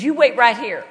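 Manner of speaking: loud, lightly imitated Texan; Southern Texan accent. Texan woman telling her seatmate to stay put, light Southern accent. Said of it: "this wonderful Southern".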